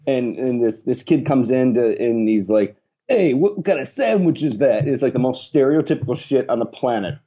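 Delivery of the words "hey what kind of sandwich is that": lightly put-on Brooklyn Italian accent; mild mock Brooklyn Italian. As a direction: imitate a Brooklyn Italian kid from a commercial. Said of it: "like, Brooklyn, you know, Italian scene".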